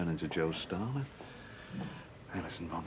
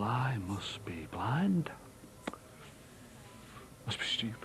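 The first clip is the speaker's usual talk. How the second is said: stunned; 6 dB quieter, slower than usual. Acted. Betrayed husband stunned.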